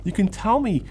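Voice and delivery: rising, fervent, building encouragement; earnest encouragement. Pretend. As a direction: pour out heartfelt support.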